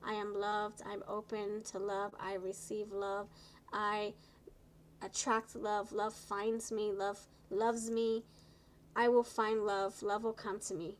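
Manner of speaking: gentle affirmations. Shown as a demonstration. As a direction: read them like a calm mantra. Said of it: "say beautiful affirmations for yourself".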